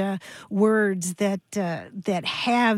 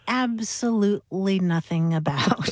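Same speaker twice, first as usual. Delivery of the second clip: pseudo-sophisticated speech; 3 semitones higher than usual. Acted. Host opens the show with nonsense doggerel, mock-pompous speechifying. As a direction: address the crowd like a mock orator. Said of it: "this sort of pseudo-sophisticated speech".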